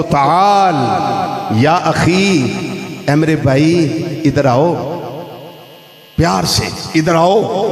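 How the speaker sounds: gentle call to a brother; loving call. Shown as a demonstration. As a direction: invite him over kindly. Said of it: "किसी को प्यार से बुलाना हो".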